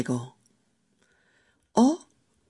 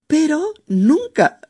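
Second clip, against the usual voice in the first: "nunca" much higher and louder, slowed; emphatic nunca; 11 semitones higher, 5 dB louder than usual. Real, not acted. Host stressing she never imagined it had a name. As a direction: land hard on "nunca". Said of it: "emphatic never".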